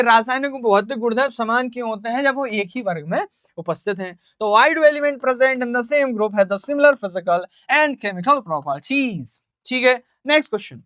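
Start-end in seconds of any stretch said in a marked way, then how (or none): 4.6-9.3 slow, word-by-word English dictation. Shown as a demonstration. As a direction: read it out so students can copy it down. Dictating exam question slowly. (धीमे-धीमे प्रश्न लिखवाते हुए)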